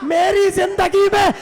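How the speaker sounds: impassioned, tearful wail of a sister; weeping sister's cry. Retold or imitated. Ali's daughter comes weeping to her brother, tearful cry. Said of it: "علی کی بیٹی روتی ہوئی آئی".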